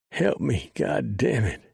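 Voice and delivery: high, desperate squall. Acted. Dying Son begs Preacher for help, high squalling. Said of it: "Son squalled".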